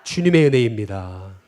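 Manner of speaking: preacher leading a call-and-response; slow call to repeat. Shown as a demonstration. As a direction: declaim it slowly so everyone can repeat it. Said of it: "또 따라해 보겠습니다".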